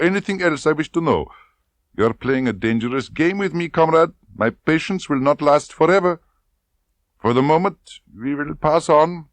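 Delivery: loud, high, cold threats; menacing colonel. A narrator's reading. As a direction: threaten her coolly. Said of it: "Rosa Klebb threatening".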